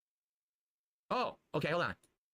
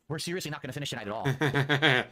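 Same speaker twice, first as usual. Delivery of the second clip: louder, fed-up repeat; exasperated; 6 dB louder than usual. Real, not acted. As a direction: push it out in frustration.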